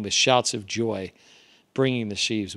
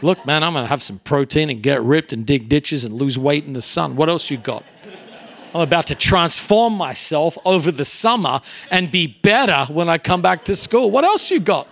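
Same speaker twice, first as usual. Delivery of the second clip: put-on defiant teen; 3 semitones higher, 5 dB louder than usual. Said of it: "I'm like".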